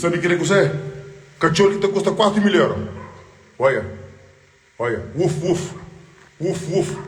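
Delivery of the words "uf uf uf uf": mock dog bark. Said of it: "Olha, ladra".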